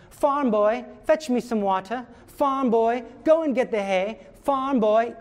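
mock demanding Buttercup; bossy Buttercup. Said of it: "she is constantly saying".

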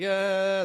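high, drawn-out mock whine; whiny hesitant groan. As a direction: imitate a reluctant kid's "uh". Imitates kid standing there hesitating.

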